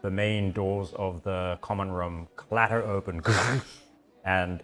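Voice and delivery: slow, measured narration; game master's scene setting. A narrator's reading. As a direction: draw out the scene as sounds approach.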